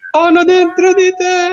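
high, slow, drawn-out cry; creepy anime voice. Acted. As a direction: stretch it out like a monster. Akira horror line imitated.

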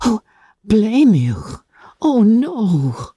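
lightly voiced gentle sister; Jane's voice. Jane reassures Elizabeth.

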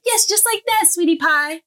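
sweet mommy praise. Retold or imitated. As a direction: coo it like praising your little girl.

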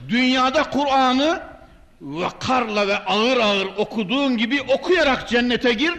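ordinary delivery

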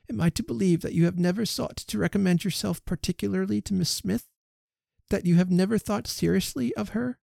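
lightly voiced indignant lady; Emma's reproachful questions. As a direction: press him for the truth. Emma questions Elton.

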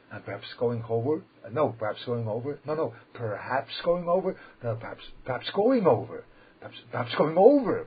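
repeats the phrase, rising from normal to a loud shout; building to loud. Shown as a demonstration. Rabbi shows his students praying aloud, building to a shout. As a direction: start at a normal level and grow into a full shout. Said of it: "I don't think you would like me to speak like this".

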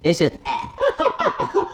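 slow, low, laid-back ah; low chill ad-lib. Shown as a demonstration. Host showing the right ad-lib of a rapper, slow and low. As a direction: drawl the ad-lib out cool and slow. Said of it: "No, no, you too excited".

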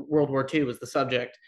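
ordinary talk

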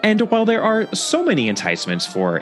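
upbeat sponsor read over music. Acted. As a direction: sell it like a friendly announcer. Host reads a sponsor ad.

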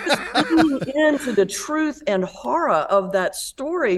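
talking through a laugh. Real, not acted. Guest still laughing after the story. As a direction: laugh as you say it.

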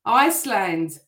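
Iceland called out like a Eurovision roll call; Eurovision announcer. Pretend. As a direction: announce Iceland to the audience, a touch grandly. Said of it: "I sound like I'm on Eurovision".

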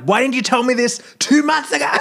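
half-laughing as she retells snapping at the roommate; snapping in anger. Retold or imitated. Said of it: "And I snapped".

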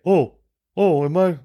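high, exasperated retelling, hammed up; high mock scolding of a stranger blocking the records; mock confrontation. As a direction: scold the fedora guy in a high mock rant.

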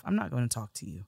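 soft, fast under-the-breath thought; thinking to herself about the chef, quietly fed up; inner thought. Retold or imitated. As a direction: mutter it to yourself, fed up. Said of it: "what I'm thinking to myself".

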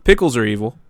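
high, indignant scolding; angry rant. Real, not acted. Co-host condemning pickles to friend, angry. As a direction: lay down the law on a food crime. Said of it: "It's so angry".

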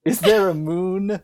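slow, drawn-out mock profound questions; grandiose Frankie. Retelling Frankie's last line to Dee Dee, slow mock-profound. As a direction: hams up the movie's big last line, slowly. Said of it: "he grabs Dee Dee by the face and he goes".

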